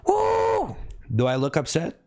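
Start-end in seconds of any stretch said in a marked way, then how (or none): 0.1-0.8 cheering woo. Real, not acted. Streamer thanking viewers for gifts, high whooping shout. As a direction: whoop for the gift.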